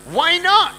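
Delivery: put-on high-pitched kid protest; imitating himself as child. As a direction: play a little kid objecting. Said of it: "And I'm like".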